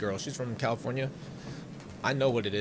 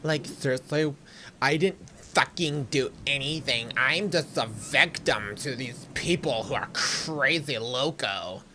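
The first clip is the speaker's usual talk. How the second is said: put-on Valley girl voice; slower than usual. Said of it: "Freaking Corey sounds like a Valley girl".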